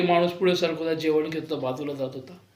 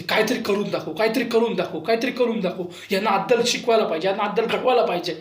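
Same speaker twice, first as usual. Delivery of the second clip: rising anger; 3 semitones higher than usual. Retold or imitated. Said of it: "ऊर्जा चढत होती".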